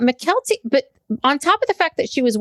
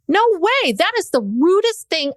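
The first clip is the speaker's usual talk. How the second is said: higher-pitched outrage, hard on the words; livid; 5 semitones higher than usual. Real, not acted. Friend venting about what Robin said, livid. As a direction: blurt it out in indignation. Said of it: "I was so livid".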